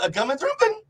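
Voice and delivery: lightly put-on Yiddish-German lilt; a hint of an old Yiddish speaker; mock Yiddish-German. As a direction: mangle English into fake German. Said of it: "sounding more like Yiddish".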